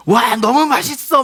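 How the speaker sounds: mock excited gush. 소리 지르는 형제를 흉내 내며 과장된 감탄. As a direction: gush over the food like a show-off. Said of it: "막 이렇게".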